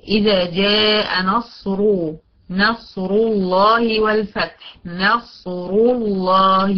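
slow recitation, thick R in نصر; measured recitation, full rounded R in نصر; heavy ra with damma. Shown as a demonstration. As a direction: draw out نصر الله with a heavy "ru". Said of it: "ري ضمة".

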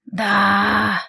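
raspy creature's drawled yes; a servant ghoul's hoarse reply; hoarse drawn-out yes. A narrator's reading. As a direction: croak it out long. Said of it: "протянула хрипло".

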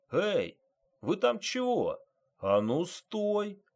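high-pitched challenge shouted across a yard; calling out. A narrator's reading. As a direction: call out to stop someone running off. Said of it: "крикнул он".

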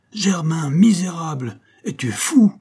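high, loud cry of outrage; angry shout. A narrator's reading. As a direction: shout it at the coachman, rising to the last word. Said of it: "lui cria le commandeur". (cri indigné, fort et aigu)

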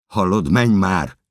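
loud, high, drawn-out plea; desperate shout. Acted. Narrator pleading with the woman to flee, desperate shout. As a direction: yell slowly and urgently to her.

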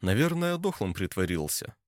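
plain reading voice

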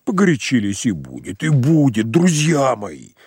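бормочет ласково, с волнением; успокоить друзей, голос дрожит; ласково, дрожащим голосом. Acted. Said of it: "забормотал ласковым, дрожащим от волнения голосом". (Самойленко ласково мирит спорщиков)

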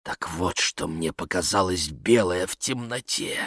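hushed, low musing; inward thought. A narrator's reading. Vladimir realises what he saw, thinking quietly. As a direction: think aloud softly, to yourself. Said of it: "подумал Владимир Сергеевич".

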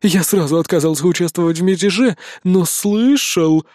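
cunning cat, playing it coy; sly declaration. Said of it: "заявил хитрый котяра". (хитро, с растяжкой)

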